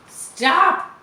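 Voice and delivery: high, loud panicked cry; shrieking piglet; terrified scream. A narrator's reading. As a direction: scream it as a frightened pig. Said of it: "screamed Wilbur".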